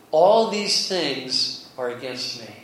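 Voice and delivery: slow, heavy lament; self-pitying lament. Acted. Jacob lamenting to his sons, self-pitying lament. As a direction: drag it out as a grieving complaint. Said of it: "That's his feelings telling that".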